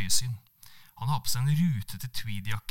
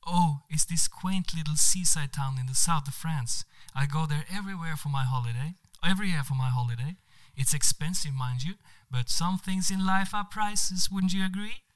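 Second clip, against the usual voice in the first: showing off; 6 semitones higher than usual. Acted. Monica brags about holiday.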